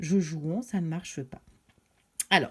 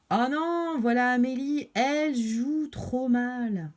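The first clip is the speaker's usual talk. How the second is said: oh non aigu puis traîné, moqueur; râle comme un gamin vexé; garçons moqueurs; 3 semitones higher, slower than usual. Acted. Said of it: "ils disent". (garçons dédaigneux envers Amélie, moqueurs)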